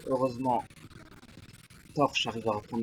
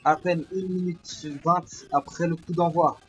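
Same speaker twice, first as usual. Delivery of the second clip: excited sports commentary; 4 semitones higher, 4 dB louder than usual. Acted. Commentator after the goal.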